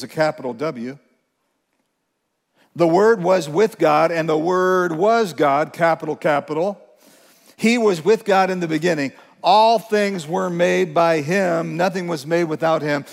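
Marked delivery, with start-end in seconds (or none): 2.7-13.0 emphatic scripture reading. Acted. Reading John 1 with force.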